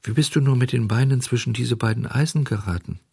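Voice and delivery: mitleidig. Acted.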